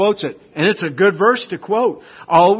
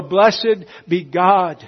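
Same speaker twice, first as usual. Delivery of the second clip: slow praise; 3 semitones higher, 4 dB louder, much slower than usual. Pretend. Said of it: "a believer go".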